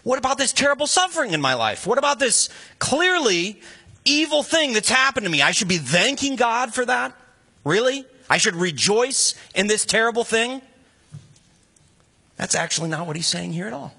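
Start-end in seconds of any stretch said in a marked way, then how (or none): 0.0-10.6 higher, indignant disbelief, a touch of mock outrage; incredulous complaint. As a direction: protest like a hurt believer. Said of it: "we think".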